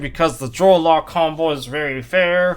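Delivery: loud, high-pitched mock praise; sarcastic. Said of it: "I'm being sarcastic".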